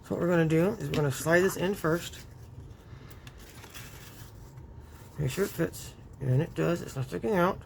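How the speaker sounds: talking around a pin held in the mouth. Real, not acted. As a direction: speak with a pin between the lips. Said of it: "Sorry, I got the pin in my mouth".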